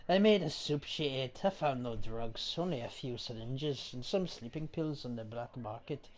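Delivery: put-on reads the diary in a light Irish accent; a grieving husband's diary, Irish lilt. Streamer reading a plague diary aloud, light Irish accent. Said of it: "I'm just doing Irish".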